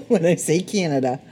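chuckling at your own accent; amused laughing. Real, not acted. Podcaster noticing her own Canadian accent, amused and laughing. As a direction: laugh through the words.

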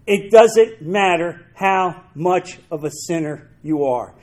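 slow it down and lay each word out; measured, emphatic repetition. Shown as a demonstration. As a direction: repeat it slowly so it sinks in. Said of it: "Let me repeat that".

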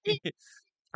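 laughing hard, high and loud. Real, not acted. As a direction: crack up in surprise. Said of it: "I don't know what that voice is".

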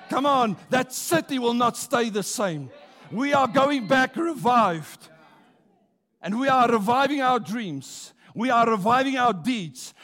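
loud fervent preaching; rousing revival preaching; full-force preaching. Acted. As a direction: preach it out to the church.

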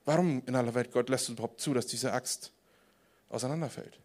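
soft, low, subdued lament; hushed questioning. Acted. Man asking God why the axe fell apart, hushed. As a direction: drop right down and ask God why. Voicing the man's complaint to God.

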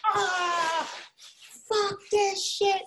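a hint of a child's meltdown; mock tantrum. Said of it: "I freaked out".

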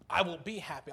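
will yourself into happiness; insistent, as if talking yourself into it; forced determination. Acted. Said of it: "if we just white knuckle it".

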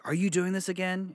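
high, disbelieving question; exasperated question. Retold or imitated. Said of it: "I'm like".

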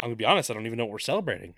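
very fast retold reply; imitated frank reply. Diana answers Ludendorff at the party, imitated frank reply. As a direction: rattle off her answer.

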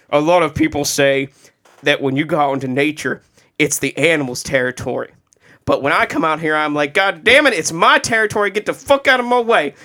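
a light take on Brian, building to a mild mock outburst; lightly voiced Brian, getting cocky at the end; imitating Brian. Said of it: "It's a great Brian impersonation".

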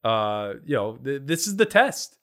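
mock-grand pronouncement; sarcastic. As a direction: lay down the law, half joking. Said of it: "sarcastic about this".

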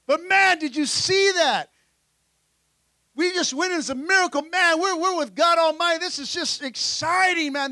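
acting out a thrilled disciple; mildly hyped-up, marvelling disciple voice; pumped up. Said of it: "These guys are, are totally excited".

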